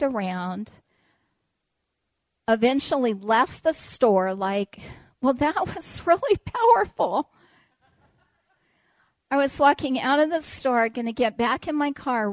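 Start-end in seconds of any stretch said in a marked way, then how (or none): 5.2-7.3 ironic mock awe. Ironic thought after store visit.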